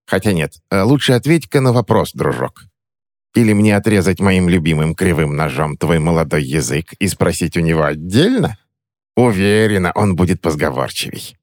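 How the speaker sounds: purring threat of the knife; menacing crone. Acted. Witch threatens the boy's tongue, slyly menacing.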